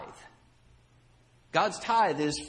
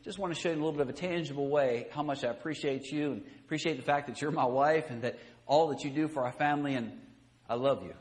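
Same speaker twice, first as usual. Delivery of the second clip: loving husband; 4 semitones lower, faster than usual. Retold or imitated. Husband giving wife flowers, tender and loving. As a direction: tell her sincerely you love her. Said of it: "the attitude with which the gift was given".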